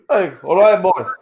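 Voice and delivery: hammed-up big hello; high loud mocking hey all right boys; mock greeting. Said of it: "He's gonna".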